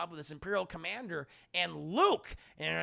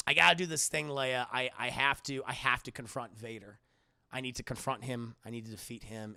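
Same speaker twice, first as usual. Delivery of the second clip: acted solemn resolve; 6 semitones lower than usual. Luke telling Leia he must face Vader, solemn. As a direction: play a grave, resolute hero confiding.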